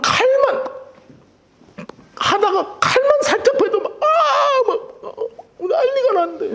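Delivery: high, laughing through words. Real, not acted. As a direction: break up laughing while telling it. Laughing about fearing knives. (웃음 터지며 높은 목소리로)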